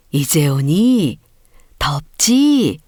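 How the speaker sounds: slow, gentle motherly welcome; mother greeting her son home, slow and gentle; tender greeting. Acted.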